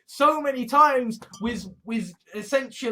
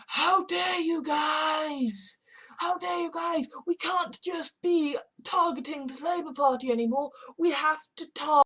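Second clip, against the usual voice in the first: higher-pitched put-on complainer voice; mock indignation; 4 semitones higher than usual. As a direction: drag out the opening like an offended protester. Mocking complainers in an acted quote.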